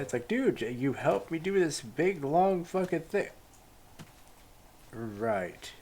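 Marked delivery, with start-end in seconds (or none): 0.3-3.3 overeager NPC. Retold or imitated.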